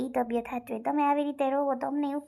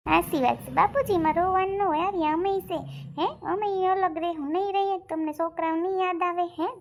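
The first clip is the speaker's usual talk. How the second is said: raised, higher-pitched insistence; remonstrating; 4 semitones higher than usual. Acted. Reasoning with crying father about living apart, remonstrating. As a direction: press the point with a lifted voice.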